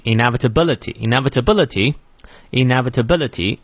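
"inevitability" joined up, stressed on "bil"; late stress. Shown as a demonstration. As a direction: link the syllables of "inevitability" and stress "bil" near the end. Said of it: "重音在后面". (“inevitability”连起来念，重音在后面)

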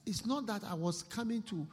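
high, loud desperate begging; begging thief. Acted. Preacher voicing a caught thief begging, high and pleading. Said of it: "you see how he'll beg".

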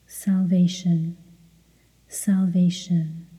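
steady, identical repetitions in an even tone; rhythmic mantra. Real, not acted. Meditation guide leading word-by-word repetition in rhythm, mantra voice. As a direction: repeat it like a metronome, unvarying.

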